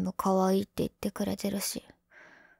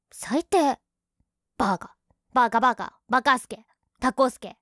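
tsundere; 3 semitones higher, 4 dB louder than usual. Acted. Girlfriend pouting, calling him names.

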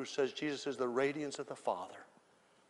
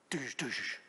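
imitated sound effect; 2 semitones lower, 4 dB quieter than usual. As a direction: mouth two whooshing effects.

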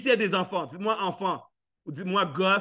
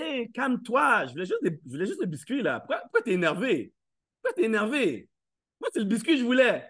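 put-on kid talking back. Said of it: "Vous allez dire".

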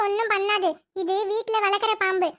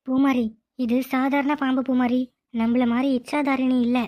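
low calm snake woman; 4 semitones lower than usual. Acted. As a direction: explain it patiently from a low register. Snake woman explains to sister.

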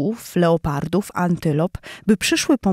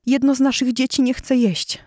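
worried mother calling; 6 semitones higher than usual. Acted. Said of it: "zawołała".

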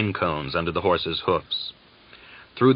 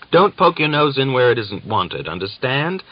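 higher, louder stern warning; sternly; 6 semitones higher, 5 dB louder than usual. A narrator's reading. Uryupin warns Gregor to stay out of it, stern. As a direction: warn him off, hard and cold. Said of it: "the other replied sternly".

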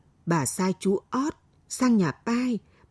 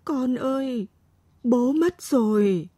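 hoarse grieving; 4 semitones higher, slower than usual. A narrator's reading. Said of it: "Giọng Mế khản đặc".

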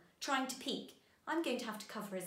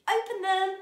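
high, loud reveal shout; excited call; 8 semitones higher, 9 dB louder than usual. Pretend. Teacher revealing today's sound to the children, excited call. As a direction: burst out after the countdown. Calling out after counting down.

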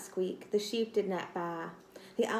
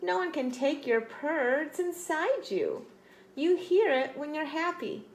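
tender; 6 semitones higher than usual. Acted. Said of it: "said her mother tenderly".

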